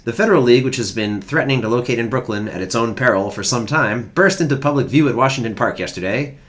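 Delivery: put-on hammy old-time sports writer read; old-timey newsreader. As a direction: read it like a 1910s paper. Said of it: "I was waiting for the old-timey voice".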